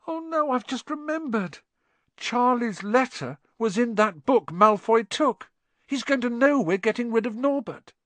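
very high, strained alarm; hoarse panic. A narrator's reading. Ron realises Malfoy has the letter, hoarse panic. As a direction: let the dread rise into a high-pitched, hoarse wail. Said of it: "in a hoarse voice".

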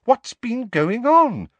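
high, loud, slow question; alarmed, insistent questioning; bewildered demand. A narrator's reading. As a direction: demand an explanation, stretching it out. Father asks again after fight.

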